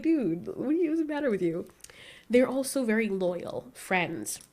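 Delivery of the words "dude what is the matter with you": exasperated. Retold or imitated. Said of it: "I'm just like".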